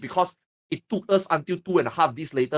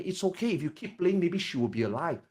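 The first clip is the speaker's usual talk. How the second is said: consoling; 6 dB quieter than usual. Retold or imitated. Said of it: "consoling me".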